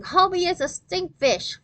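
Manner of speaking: high, loud teasing yell; yelling taunt. A narrator's reading. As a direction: yell it to tease.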